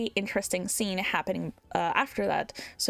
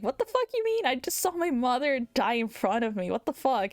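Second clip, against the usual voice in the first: frantic outburst; 4 semitones higher than usual. Retold or imitated. Jed losing it after mother's death.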